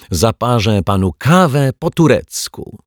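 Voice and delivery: excited host's exclamation; enthusiastic cry. A narrator's reading. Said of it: "krzyknął detektyw Pozytywka".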